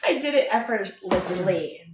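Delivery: laughing through the words. Real, not acted. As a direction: chuckle while saying it. Laughs at own rambling.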